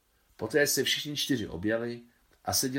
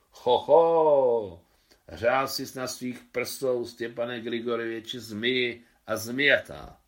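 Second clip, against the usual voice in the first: loud mocking opening, then slow jeering; mocking drunk; 2 semitones higher, 5 dB louder, slower than usual. Drunk father jeers at his sons clinging to his arms, mocking. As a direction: sneer it out like a drunk bully. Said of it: "Zachechtal se".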